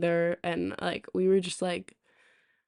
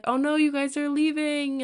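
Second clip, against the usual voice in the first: high mock neighbor voice; 8 semitones higher than usual.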